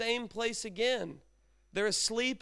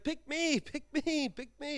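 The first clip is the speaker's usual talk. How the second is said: high, eager pleading voice fading softer; eager pick-me plea; 5 semitones higher, 3 dB quieter than usual. Acted. Guy at the back jumping up begging to be picked, high and eager. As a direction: beg to be chosen like an overeager kid.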